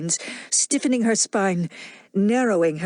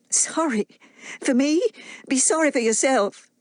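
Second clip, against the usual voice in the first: higher, indignant retort; indignant woman; 6 semitones higher than usual. Acted. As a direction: throw his pity back at him.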